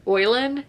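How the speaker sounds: island turned into "Oilen", oy-len; Tangier pronunciation of island. Shown as a demonstration. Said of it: "Island as".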